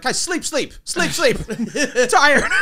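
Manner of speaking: put-on high toddler voice, whining for sleep; baby talk. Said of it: "he talks like a baby".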